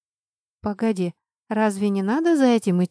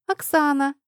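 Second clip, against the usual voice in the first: bright higher call of the name; glad greeting; 7 semitones higher than usual. A narrator's reading. Albina glad to see Oxana, happy call. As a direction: greet her happily, lifting up. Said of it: "обрадовалась Альбина".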